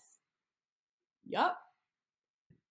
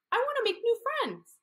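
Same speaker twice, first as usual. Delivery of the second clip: put-on baby shark voice; 13 semitones higher than usual. Shark greets starfish.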